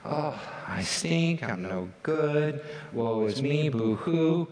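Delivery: slow mock whimpering self-pity; fake crying. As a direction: whine it like a pretend sob. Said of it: "you're like".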